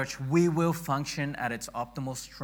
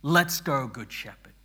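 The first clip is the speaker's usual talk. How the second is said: team cheer; 2 semitones higher, 8 dB louder than usual. Shown as a demonstration. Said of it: "let me say".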